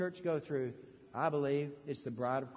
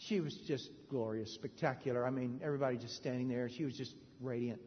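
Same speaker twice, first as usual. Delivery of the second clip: softer, lower, marvelling; hushed awe; 6 semitones lower, 7 dB quieter than usual. Real, not acted. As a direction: hush it in wonder. Awed description of the bride.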